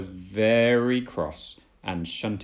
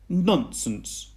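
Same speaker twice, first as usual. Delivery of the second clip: higher, louder scoffing voice; dismissive James; 9 semitones higher, 4 dB louder than usual. Acted. James denying fear of the monster, high scoff. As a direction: brush it off proudly. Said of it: "said James".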